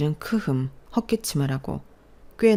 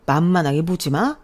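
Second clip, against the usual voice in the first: loud sarcastic echo rising on 마; mocking echo; 6 dB louder than usual. Father mocking the daughter's own warning, sarcastic echo. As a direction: throw 만만하게 보지 마 back with a scornful rise on 마.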